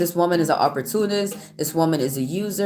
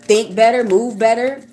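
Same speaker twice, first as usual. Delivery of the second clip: raised, higher pitch, rising anger at trolls; heated scolding; 4 semitones higher than usual. Real, not acted. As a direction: scold them, voice climbing higher. Scolding rude chat commenters.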